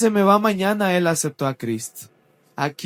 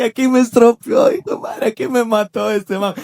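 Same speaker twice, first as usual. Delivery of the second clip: much louder, higher panicked mock shout; pánico cómico; 6 semitones higher, 7 dB louder than usual. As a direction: yell it like you're about to get beaten. Huye del padre que viene. (grito de pánico exagerado, muy fuerte)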